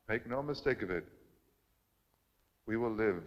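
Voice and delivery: calm closing vow after the climax. Acted. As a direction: settle into a tender, certain promise.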